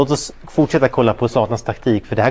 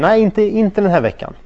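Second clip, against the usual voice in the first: higher, louder firm mother's no; mother refusing; 8 semitones higher, 4 dB louder than usual. Retold or imitated. Mother telling her son he can't go to the party, firm. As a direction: put your foot down like a mom.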